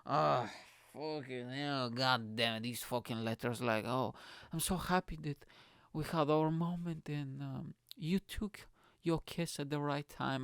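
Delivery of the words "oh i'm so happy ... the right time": mock love-letter voice. Man reading out her weird text, mock-sentimental. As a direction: read her gushing text with halting, mock tenderness. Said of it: "who the fuck talks like that?".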